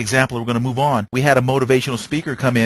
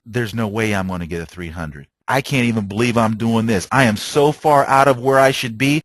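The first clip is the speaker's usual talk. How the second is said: negative self-talk; 4 semitones lower than usual. Retold or imitated. Bowler doubting himself mid-game, deflated and low. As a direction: talk yourself down. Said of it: "you start thinking so negative".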